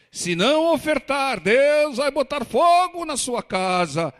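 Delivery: high, loud mock threat; hammed-up hellfire preacher, stretching the words; pedantic religious zealot. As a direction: imitate a preacher menacing the congregation. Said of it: "pedante religioso que fica apontando o dedo".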